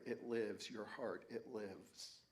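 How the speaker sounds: lightly whispered, fading away; quiet, hushed and dropping off at the end; soft whisper. Retold or imitated. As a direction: murmur it close to the ear. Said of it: "she kept whispering in my ear".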